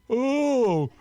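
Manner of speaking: high, loud shocked exclamation; shocked outburst. Acted. Patient to doctor after the bad news, loud and aghast. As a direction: blurt it out, aghast. Patient reacts to losing his brain.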